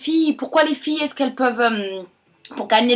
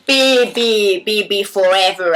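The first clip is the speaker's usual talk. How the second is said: Brigitte Bardot; 5 semitones lower, slower than usual. Acted. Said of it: "comment je fais le bébé".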